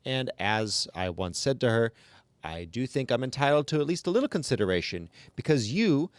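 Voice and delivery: lightly voiced, run-on complaining chatter; grumbling ghost woman. Reading the ghost's endless complaint to the class, a mild put-on whine. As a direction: rattle it off like a self-pitying gossip, barely shifting your own voice. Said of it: "I'm going to try to do the voice".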